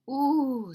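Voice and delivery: loud, high, drawn-out "ooh"; blissful sigh. Acted. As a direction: sigh it out with storybook relish. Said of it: "sighed Don Diego".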